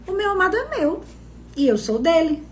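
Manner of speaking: lightly carefree, lifted start on meu amado; breezy, untroubled bride; carefree reading. Shown as a demonstration. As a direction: read it like a bride who feels sure of him. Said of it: "você tem que ler isso na entonação".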